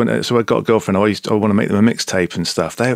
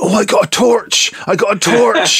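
put-on much higher, louder, squealing like a young boy at Christmas; imitating his six-year-old self ripping open a present; excited child; 13 semitones higher, 4 dB louder than usual. Man mimics his childhood self opening a Christmas present, giddy high-pitched thrill. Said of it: "me getting really excited".

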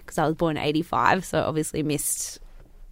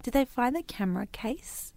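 whisper; 5 semitones higher, 6 dB quieter than usual. Real, not acted. Conspiratorial question.

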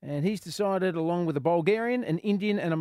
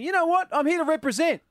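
higher, louder brash Aussie bloke; cocky Aussie; 12 semitones higher, 6 dB louder than usual. Retold or imitated. Host mimics a little Aussie on the world stage, loud and high. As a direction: puff up and announce yourself proudly. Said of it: "a little Aussie in there going".

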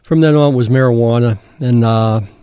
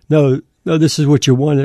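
a hint of a stern father saying no, a little higher; disciplinarian father; 4 semitones higher than usual. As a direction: lightly voice a firm dad setting a limit. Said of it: "It was like a disciplinarian voice".

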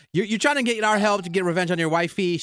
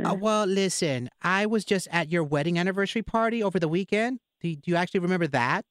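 lightly raised put-on lawyer voice; mildly pitched-up prank-call character; Nacho Chavez, nosy prank caller; 4 semitones higher than usual. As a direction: keep up the phony lawyer act, slightly high.

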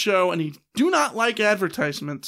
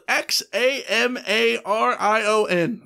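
spelling it out slowly; slower than usual. Shown as a demonstration. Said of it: "Say that ten times fast".

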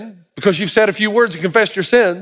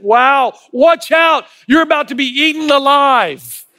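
alarmed warning shout; 5 semitones higher, slower than usual. Acted. Older wiser Solomon warns the young man, shouting. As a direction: yell to a friend about to be eaten alive. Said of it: "The other sees it".

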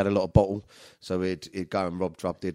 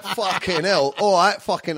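retold alarm; 10 semitones higher, 6 dB louder, slower than usual. Lads react to the shotgun.

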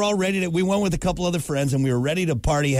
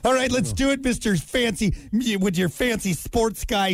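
exaggerated cartoon intonation; 5 semitones higher than usual. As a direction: play it dim and dreamy. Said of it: "You twirling your hair in your finger".

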